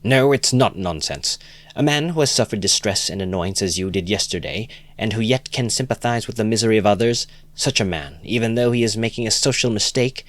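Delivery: simple-hearted friend crying out in praise; earnest cry. Acted. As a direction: insist warmly, with passion. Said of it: "cried the simple-hearted Lebeziatnikov".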